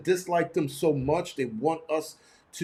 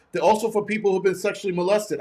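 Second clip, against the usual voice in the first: mild mock yell, pitched up; raised-pitch retold outburst; 4 semitones higher than usual. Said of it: "she yelled it at me".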